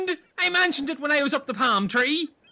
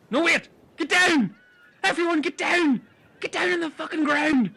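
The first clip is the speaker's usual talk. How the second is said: urgent shout; 3 semitones higher than usual. Acted. Urgent warning to the group.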